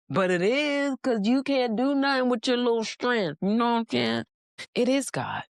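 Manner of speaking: rising high and insistent; emphatic reply. Acted. Preacher insisting to doubting listeners, high and emphatic. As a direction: lift it up high to insist it is God.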